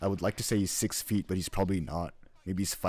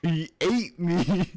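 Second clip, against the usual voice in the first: amused echo; 8 semitones higher, 4 dB louder, much slower than usual. Acted. Echoing Gabe's line while cracking up.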